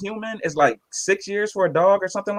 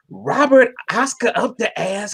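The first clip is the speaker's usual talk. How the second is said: mocking nickname; 5 semitones higher, slower than usual. Mocking guy gives nicknames.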